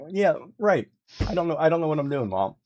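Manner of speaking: fast, laughing sarcasm; sarcastic laugh. Retold or imitated. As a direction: rattle it off laughing at the irony. Sarcastic reply to mother.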